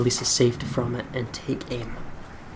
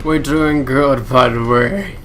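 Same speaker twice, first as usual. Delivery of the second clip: mock cheerful client; 7 dB louder, slower than usual.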